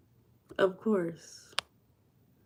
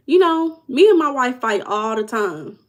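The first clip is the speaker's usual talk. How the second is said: lightly voiced driver; 6 semitones higher, 3 dB louder than usual.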